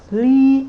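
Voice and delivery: Li held high and loud; high level tone. Shown as a demonstration. Teacher showing Li in the first tone. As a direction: hit Li on a high flat tone. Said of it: "Li is for first tone".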